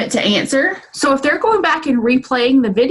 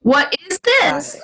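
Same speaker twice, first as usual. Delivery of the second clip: put-on slow, clearly spaced question for a toddler; slow teacher demo; 5 semitones higher, slower than usual. Shown as a demonstration. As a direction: model it slowly, word by word. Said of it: "So the difference is".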